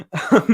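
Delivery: audience gasp. Retold or imitated. Retelling the audience seeing the shimmer, mock gasp. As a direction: imitate a crowd's awed "ah". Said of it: "audience again, just like".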